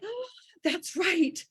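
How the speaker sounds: slow, gentle "Oh, that's right"; dawning realization. Retold or imitated. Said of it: "your hearts are like".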